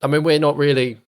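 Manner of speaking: lightly gravelly rough character voice; a touch of gravel in the throat. Acted. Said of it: "he's got such a gravelly voice as well".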